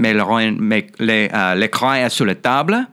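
halting French, feeling for the words; French accent. Shown as a demonstration. Voice actor demonstrating a favorite accent to the hosts, halting French. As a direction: try out a French sentence with uh hesitations. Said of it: "I like doing the French accent".

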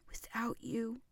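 Without you breathed in a whisper; hushed despairing Without you; whispered lament. Acted. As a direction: whisper it, heartbroken. Repeated lament to absent wife.

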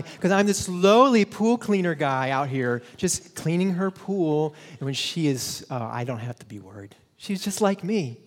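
mock-humble, sarcastic telling; facetious. Shown as a demonstration. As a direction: lay on fake awe. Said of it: "I'm being facetious".

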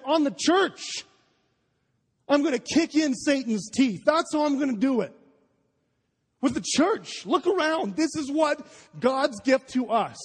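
fired up. Real, not acted. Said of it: "Just tell them a little fired up".

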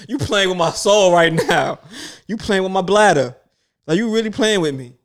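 laughing mock plea. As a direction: whine it through laughter. Retold plea during painful scan.

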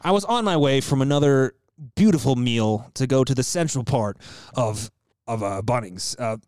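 Anthony Bourdain. Acted. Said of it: "Do Bourdain".

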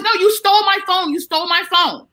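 high, whiny accusation; mock drunk woman. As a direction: mimic a drunk woman insisting they took her phone.

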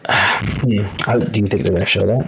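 distorted, broken-up mic audio; bad distortion on the mic; glitching audio. Real, not acted. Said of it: "your audio is terrible right now".

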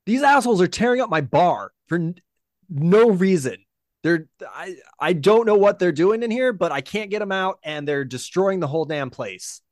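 loud, high, fast angry Minotaur barkeep. Acted. Minotaur barkeep yelling at the militia about her bar, loud and high. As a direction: rant at the intruders wrecking her bar.

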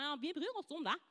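mock teacherly assurance; insincere teacher. Teacher telling pupils they care, mildly insincere. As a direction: imitate a teacher's half-meant reassurance. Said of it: "ikke sånn litt som du tror at læreren".

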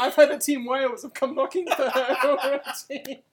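laughing through a tease. Real, not acted. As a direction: chuckle the words out. Teasing joke with laughter.

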